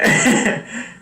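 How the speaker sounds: airy giggle between words; breathy giggle. Real, not acted. Vlogger still giggling about the ghost, airy laugh.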